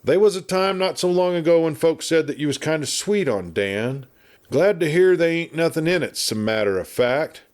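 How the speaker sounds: put-on a chatty old westerner spinning yarns; garrulous old marshal. Garrulous marshal rambling at the doctor, lightly voiced.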